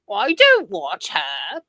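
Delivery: slow, drawn-out mock quote; exaggerated, dragged-out mimicry; mocking imitation. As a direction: imitate her slowly with big swings in pitch. Mocking a woman's video quote.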